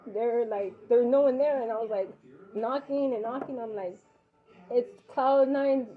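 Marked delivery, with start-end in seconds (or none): 4.7-5.9 each word drawn out slowly, naming herself to the intercom; slow careful announcing. Retold or imitated. Mother announcing herself at the locked intercom, slowly. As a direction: spell out who you are slowly and clearly.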